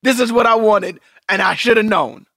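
hammed-up joyful gushing, half-laughing at himself; mock-ecstatic husband. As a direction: gush like it's the best night of your life. Acting himself thrilled mid-sex.

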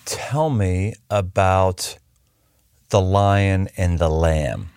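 low, halting voice with long pauses; moved, feeling for the words; a little emotional. Real, not acted. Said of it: "I just started getting a little emotional".

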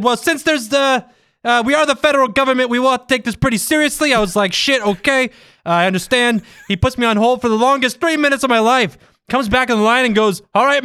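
high, hammed-up Bostonian storytelling; attempted Boston accent. Reader voices himself and the loan company man, overdone Boston accent. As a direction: keep up a bad, lilting Boston accent. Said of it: "A true Bostonian".

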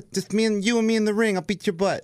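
a light Tyson impression calling someone out. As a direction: dare him into the ring like Tyson. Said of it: "You kinda sound like him a little bit".

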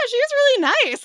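high, loud cheerful reply; excited squeal. Retold or imitated. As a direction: gush brightly. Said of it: "I'm like".

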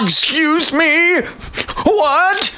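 high, slow bewildered "what?"; stunned, drawn-out double take. Retold or imitated. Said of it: "Like that sound".

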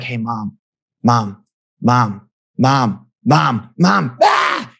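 put-on a child calling mom over and over, rising to a yell; kid nagging. Kid pestering parent for attention.

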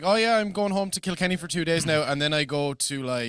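imitated nonchalance. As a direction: rattle off big plans as if nothing. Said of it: "he's nonchalant about it".

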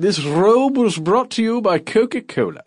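royal ad read. Pretend. Monarch continues sponsor bit.

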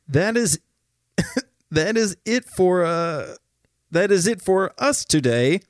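laughing. Real, not acted. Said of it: "I can't do it".

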